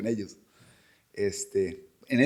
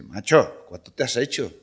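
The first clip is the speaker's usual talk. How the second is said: Spanish guard; 5 dB louder than usual. Retold or imitated. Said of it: "llegaban a ver y dice".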